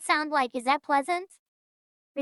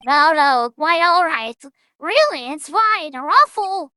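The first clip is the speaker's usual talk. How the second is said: loud character voice; 6 dB louder than usual. Acted. Streamer voicing game character.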